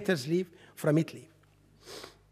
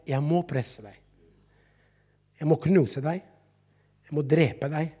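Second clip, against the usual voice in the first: solemn declaration; 3 semitones lower than usual. Shown as a demonstration. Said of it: "Jeg skal si det igjen".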